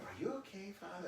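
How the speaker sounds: imitating concerned pilgrims. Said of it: "people would go".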